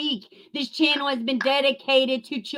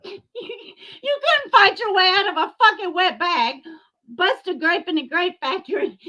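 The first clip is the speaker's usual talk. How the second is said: higher, louder sneering jab; taunting insult; 6 semitones higher, 3 dB louder than usual. Real, not acted. Mocking Laura to her face, louder and sneering. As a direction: throw the insult like a punch.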